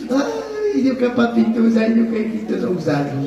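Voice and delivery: hammed-up mourner's lament, fading away; mock funeral wailing. Imita llanto de funeral, en broma. (lamento fingido de funeral, agudo que decae)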